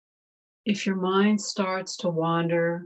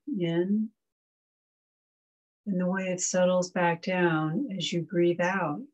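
unhurried meditation guide, long pauses between phrases; calm, measured breathing instruction; guided meditation. Real, not acted.

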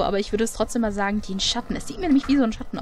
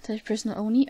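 whisper. Real, not acted. Whispered note in dark basement.

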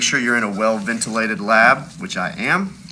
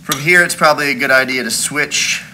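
muffled by a face mask; speaking behind a mask; through a face mask. Real, not acted. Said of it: "I'm wearing a mask right now".

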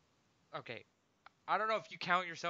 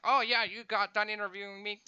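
mocking YouTuber; 6 semitones higher, 8 dB louder than usual. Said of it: "And they're like".

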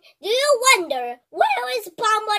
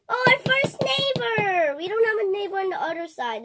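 mock crying; 3 semitones higher than usual. Toy voice upset about neighbor.

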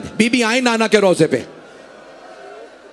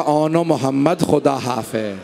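soft sorrowful farewell; 9 semitones lower, 3 dB quieter than usual. Acted. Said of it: "एक मर्तबा चलते हुए कहा".

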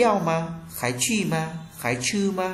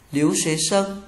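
"sân" given the weight in "Liếu xế sân"; teacher's model with the accent on "sân"; stress on last syllable; 2 semitones higher than usual. Shown as a demonstration. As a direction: lean on the final syllable "sân". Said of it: "nhấn vào âm tiết cuối cùng".

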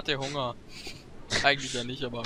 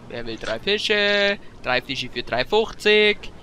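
market crier; 3 dB louder, slower than usual. Pretend. Hawking fish for sale.

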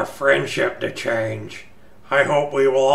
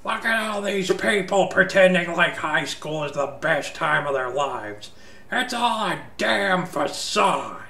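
disdainful; 4 semitones higher, 3 dB quieter than usual. Acted. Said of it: "their expressions filled with disdain".

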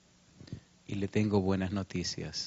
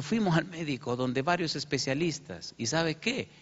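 excited mother; 6 semitones higher than usual. Retold or imitated.

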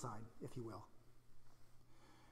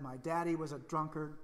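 defeated inner voice; 2 semitones lower, 6 dB quieter than usual. Retold or imitated. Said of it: "that voice that said".

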